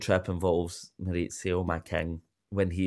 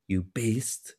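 mock outrage, the second word much higher; quoting Lisa Rinna; 5 semitones higher, much slower than usual. Host quotes the famous reality TV insult in mock outrage. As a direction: fling the insult then repeat it in disbelief. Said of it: "the iconic".

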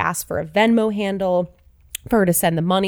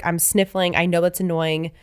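stuffy cold voice. Real, not acted. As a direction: sniffly voice with a head cold. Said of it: "I'm apologizing to anybody how I sound".

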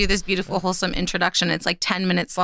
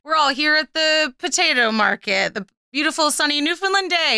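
lightly voiced cheery opening number, higher pitch; wholesome musical welcome; 5 semitones higher than usual. Woman imitating the musical's opening cast, mock wholesome welcome. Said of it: "very wholesome, like, welcome introduction".

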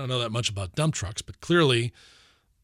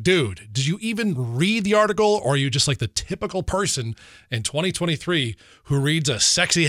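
retold rant at a friend, pitched up; exasperated, setting a friend straight; lightly acted incredulous scolding; exasperated retort; 4 semitones higher than usual.

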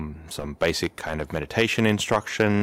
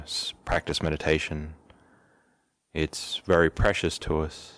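calm, even instructions with long pauses; guided meditation; 2 semitones lower than usual. Real, not acted. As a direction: settle them gently, leaving space between phrases. Leads into a meditation session.

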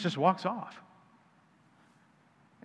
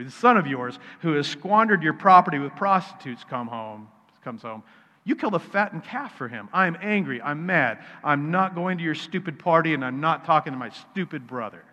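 put-on angry older brother. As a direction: storm out, refusing the party. Older brother's complaint voiced in sermon.

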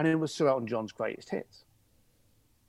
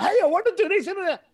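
much higher and louder, bursting with eagerness; eager request; 6 dB louder, faster than usual. Shown as a demonstration. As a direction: pitch it up like someone dying to do it. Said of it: "they're all kinda like".

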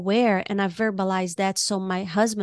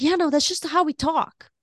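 breezy loud reply; 7 semitones higher than usual. Retold or imitated. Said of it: "Very loud".

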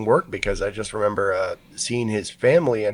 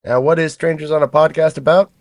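conductor voice; 6 semitones higher, 6 dB louder than usual. Acted. Conductor persona continues.

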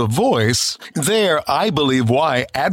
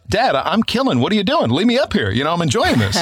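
higher-pitched voice of his younger self; indignant child; 5 semitones higher than usual. Retold or imitated. Three-year-old to dad on stage, high mock protest. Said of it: "as a child".

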